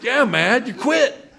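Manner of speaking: mock dad, half-lost to laughter; dad's grumble retold through real laughter; laughing imitation of dad. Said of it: "He goes".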